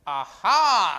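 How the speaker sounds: loud pleased aha; delighted aha. Real, not acted. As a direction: exclaim with delight. Teacher delighted by student answer.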